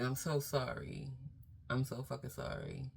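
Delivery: soft, heartfelt sorry; sincere apology. Retold or imitated. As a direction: say it like you mean every word. Apologizing to hurt partner.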